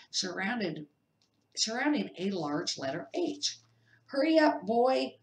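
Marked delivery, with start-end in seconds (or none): 4.1-5.2 high, loud impatient shout. A narrator's reading. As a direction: yell from the kitchen to hurry him. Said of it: "shouted Uncle Vernon".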